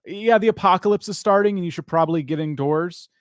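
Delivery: lightly put-on emergency broadcast voice; scary robot alert. Host imitates a scary weather alert on the radio, mock robotic announcer. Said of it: "that scary robotic voice that basically sounds".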